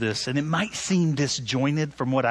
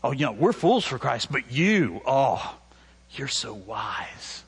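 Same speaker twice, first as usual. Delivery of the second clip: smart alecky; 3 semitones lower than usual. Retold or imitated. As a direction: needle them with fake praise. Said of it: "with that smart alecky tone".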